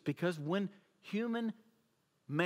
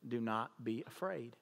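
soft reassurance; 6 semitones lower, 6 dB quieter than usual. Retold or imitated. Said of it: "that is when he says".

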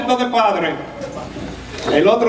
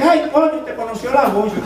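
put-on old wife exclaiming; 5 semitones higher than usual.

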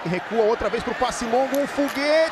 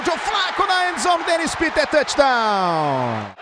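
touchdown call; slower than usual. Real, not acted. Touchdown pass called live.

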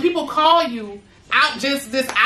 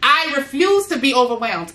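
affirmation. Shown as a demonstration. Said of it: "and say this with me".

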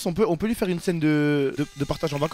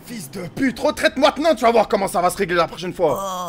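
acted threat; 3 dB louder than usual. Acted threat during knife attack.

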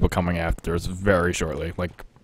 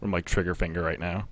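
whispering while hiding; 10 dB quieter than usual. Real, not acted. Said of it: "So I'm being careful".

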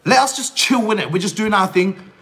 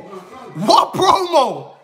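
incredulous laugh; 6 semitones higher, much slower than usual. Real, not acted. Mocking a rival's claim on stream.

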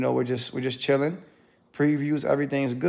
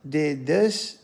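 drawn-out, very slow incredulous question; stunned disbelief; much slower than usual. Retold or imitated. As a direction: let the disbelief stretch each word. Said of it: "And I said".

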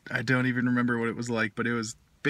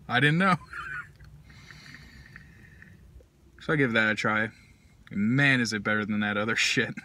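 speaking while smoking pipe; talking around a pipe. Real, not acted. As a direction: pipe clenched in teeth. Seen 0: Pipe stem held between lips throughout, hand supporting the bowl.

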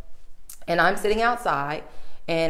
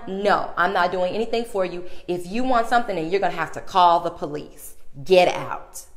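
mock angry clerk. Clerk final refusal.

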